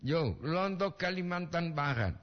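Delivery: ordinary talk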